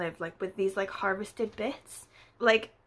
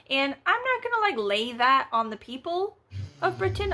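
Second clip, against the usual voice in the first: mock outrage; 5 semitones higher, 3 dB louder than usual. Mock dramatic aside about Britain.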